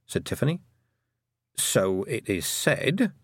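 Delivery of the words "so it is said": slow, careful and tactful; diplomatic. Acted. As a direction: choose the words diplomatically.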